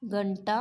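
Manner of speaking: घंटा said with a retroflex ṭ, ghaṇṭā; correct pronunciation. Shown as a demonstration. Teacher demonstrating correct घंटा to class. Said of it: "अपन ऐसे बोलेंगे घंटा".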